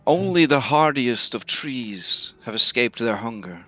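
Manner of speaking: slow, hushed ancient tree voice; talking tree. Acted. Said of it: "the tree says".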